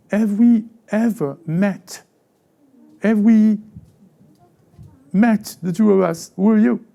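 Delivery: a lightly voiced judge who doesn't know you; mock puzzled God. Voicing God questioning stranger.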